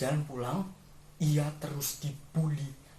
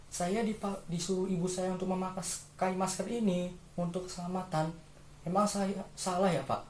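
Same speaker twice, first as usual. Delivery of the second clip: put-on higher child voice answering an adult; child explaining; 4 semitones higher than usual. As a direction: answer innocently as a questioning child.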